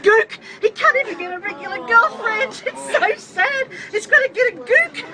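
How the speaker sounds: jeering laugh. Real, not acted. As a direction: laugh through the taunts. Drunk passenger jeering on train.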